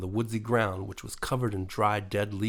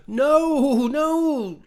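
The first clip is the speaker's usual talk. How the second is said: high, loud no no; high creature voice cutting her off; interrupting; 9 dB louder than usual. A narrator's reading. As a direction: cut in urgently. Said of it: "Teddy interrupted again".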